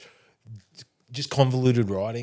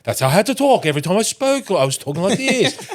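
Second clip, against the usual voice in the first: a hint of a higher odd cadence; retelling the mushroom trip, a touch higher odd cadence; weird cadence; 6 semitones higher than usual. Shown as a demonstration. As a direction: lightly show the stuck voice. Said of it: "It was a weird cadence I was in".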